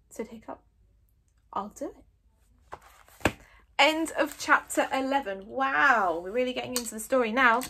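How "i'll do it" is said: very slow whispered; resigned. Acted. Hiccup accepting the deadly task, slow whisper. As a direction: give in with a breath.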